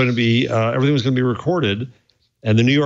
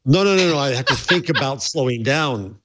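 laughing protest. Real, not acted. Protests while laughing at the teasing.

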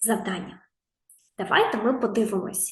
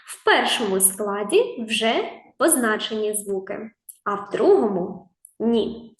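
whisper. Acted. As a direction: whisper it like a secret. Teacher whispers a clue.

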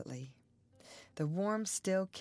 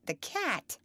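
incredulous; 7 semitones higher, 4 dB louder than usual. A narrator's reading. Zena's incredulous echo.

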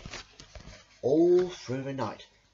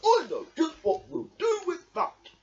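knowing Badger; 5 dB louder than usual. A narrator's reading. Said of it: "said Badger".

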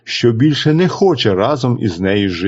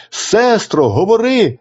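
higher, urgent call; 8 semitones higher, slower than usual. A narrator's reading. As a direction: third brother calls to his sister. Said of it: "Третій гукає". (третій брат гукає до сестри, вище)

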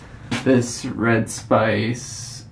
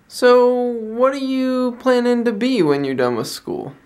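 high-pitched attempt at a Scottish accent; imitated Scottish accent; 11 semitones higher than usual. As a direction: mimic an older Scotsman, drawing the question out high. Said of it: "he's got this thick Scottish accent".

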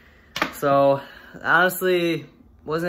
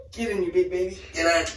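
in ice cold water; 4 semitones higher, faster than usual. Real, not acted. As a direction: force yourself in, yelling. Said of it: "urging himself in".

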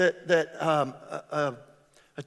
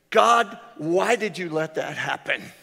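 complaining cry to God; 6 dB louder than usual. Retold or imitated. Complaining prayer voiced.

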